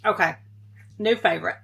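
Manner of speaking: talking through a mouthful of fruit; words round a bite, still chewing; mouth full. Real, not acted. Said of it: "I was talking with my mouth full".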